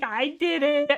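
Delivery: lightly voiced confessing pup; proud guilty dog. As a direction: own up like a happy dog. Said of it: "It's like".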